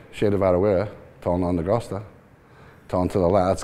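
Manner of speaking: recited Irish Gaelic prayer. Shown as a demonstration. Owner showing the interviewer his Irish, Gaelic recitation. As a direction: rattle off the Hail Mary in Irish Gaelic. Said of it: "Well, I can speak Gaelic".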